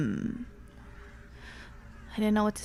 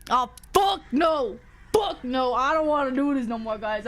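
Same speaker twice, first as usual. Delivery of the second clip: spooked protest; 2 semitones lower than usual. Real, not acted. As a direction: push the creepy idea away. Panics at story again.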